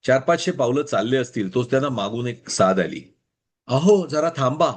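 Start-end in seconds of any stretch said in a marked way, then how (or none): 3.7-4.7 calling out. A narrator's reading. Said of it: "स्त्रीच्या आवाजातली साद".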